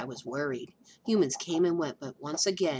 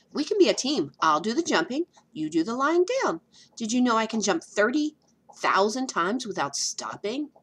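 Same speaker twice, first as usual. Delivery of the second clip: lightly voiced flea, higher and louder; eager flea; 4 semitones higher, 4 dB louder than usual. Flea eagerly pitching teamwork to dog. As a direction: sell the idea with bouncy eagerness.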